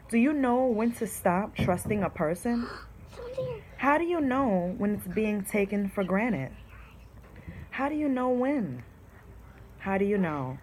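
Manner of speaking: poem reading. Shown as a demonstration. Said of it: "It says".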